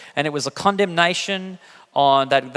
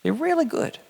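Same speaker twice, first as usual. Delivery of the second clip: higher sing-song "really good" with a veiled threat; slight warning; 11 semitones higher, 3 dB quieter than usual. Retold or imitated. Dad repeats to son Zeke about the room, sing-song warning. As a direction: lilt it so the warning is heard. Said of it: "there's a slight warning in that".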